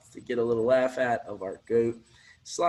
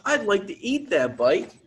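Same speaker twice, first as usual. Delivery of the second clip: higher and louder hungry goat voice; greedy goat thought; 6 semitones higher, 5 dB louder than usual. Acted. Goat secretly wants to eat the bike, higher and louder.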